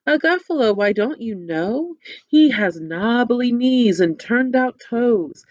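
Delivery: storybook voice with characters; reading to children. Acted. Teacher retelling the story to children with puppets. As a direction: tell the tale with puppets.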